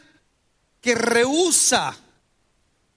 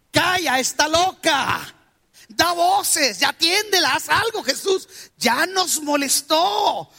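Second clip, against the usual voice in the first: mock-irritated disciples complaining, a bit higher; annoyed disciples; 4 semitones higher than usual. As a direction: grumble at Jesus to get rid of her. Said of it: "los discípulos le dijeron al maestro". (discípulos quejándose, molestos, en tono de burla)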